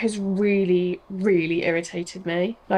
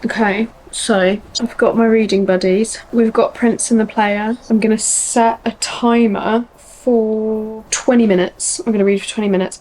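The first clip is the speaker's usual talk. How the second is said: louder, eager and bubbly; excited; 8 dB louder than usual. Real, not acted. To viewers starting her reading timer, excitedly louder. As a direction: pump yourself up to start reading. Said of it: "Very excited".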